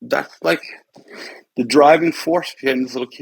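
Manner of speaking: emotional, choked-up voice, catching with feeling. Describing a little kid who wants people to be proud of him, getting emotional. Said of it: "now I'm gonna get emotional".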